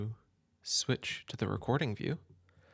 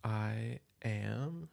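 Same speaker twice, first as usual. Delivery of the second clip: whispered; much slower than usual. Real, not acted. Quietly starting the recording.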